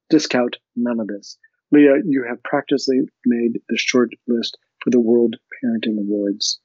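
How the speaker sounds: measured read-aloud narration; story reading. Acted. Podcast host reading a novel passage aloud.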